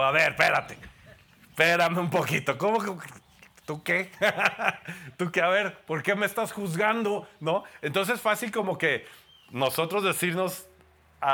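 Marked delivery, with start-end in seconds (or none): 0.0-7.3 hammed-up churchgoer bristling at being called a sinner; mock indignation. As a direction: push back like someone insulted. Indignant retort acted out.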